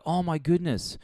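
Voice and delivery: high, breathless mock alarm; hammed-up concerned gasp; naive heroine. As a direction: play the clueless heroine gasping. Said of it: "And it's like".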